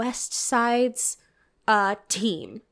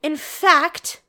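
louder, higher prissy proper voice; mock prim voice; 3 semitones higher, 4 dB louder than usual. Retelling the girl's odd confession, mock prim. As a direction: send up a prim girl. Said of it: "is like".

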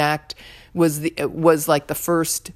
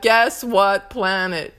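teasing joke voice; slower than usual. Retold or imitated. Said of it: "those stupid jokes about".

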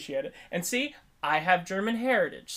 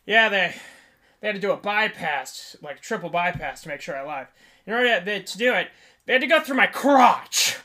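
loud storyteller patient; 3 semitones higher, 6 dB louder than usual. Retold or imitated. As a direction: imitate an emphatic patient, punching the last word. Retells a patient's favorite word.

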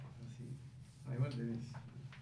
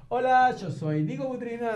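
much higher, hyped-up on-camera intro; showing the wrong way to talk into the mic; camera shout style; 10 semitones higher than usual. Shown as a demonstration. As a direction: pitch it up like a YouTuber greeting the lens. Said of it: "vos estás acostumbrado a tener la cámara y decís".

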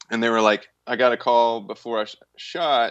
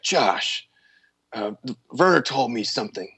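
Nick Cage doing Herzog. Retold or imitated. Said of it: "Nick Cage doing his best Werner Herzog".

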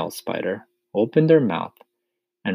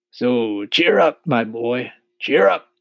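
higher, louder cheering-up voice; rally him as a storybook centipede; hearty centipede; 5 semitones higher, 6 dB louder, slower than usual. A narrator's reading. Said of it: "the centipede said".

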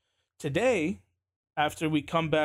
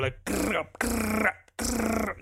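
deep throaty growls; 5 semitones higher, much slower than usual. Retold or imitated. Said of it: "My stomach literally sounds like".

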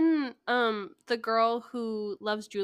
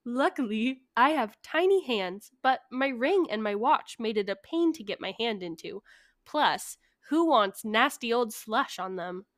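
measured story narration; telling a written tale; story reading. Acted. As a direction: read it aloud with deliberate emphasis. Reads out a prepared story.

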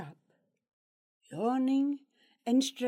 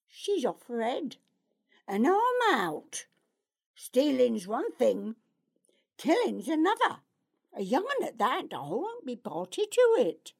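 gruff, rising, hurried protest; an outlaw refusing to go along; agitated outlaw voice; 2 semitones higher, 3 dB louder than usual. Acted. Dreg refuses, pacing.

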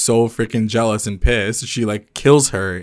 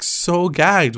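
so gagged, pitched way up; real gagged; 8 semitones higher than usual. Real, not acted. Fan telling friend her own reaction, high squeal. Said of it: "And I was, like".

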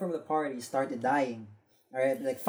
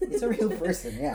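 laughing; 8 semitones higher, 3 dB louder than usual. Real, not acted. Laughing confirmation.

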